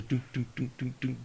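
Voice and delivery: soft, dull repeated thuds; imitated mic thumps. Game master showing what the mic picks up, soft thudding. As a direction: imitate a jiggling foot on the mic, softly. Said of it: "the mic's picking up".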